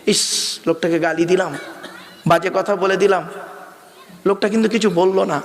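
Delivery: regretful inner voice. Retold or imitated. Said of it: "imagined regretful man".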